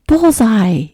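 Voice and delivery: high, loud triumphant yell; boy's yell. A narrator's reading. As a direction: yell it out as a boy jumping from the bushes. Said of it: "yelled the boy".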